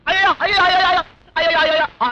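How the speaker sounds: comic fake wail of pain; hammed-up wailing. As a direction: overdo the groaning for pity. Fake wailing after beating.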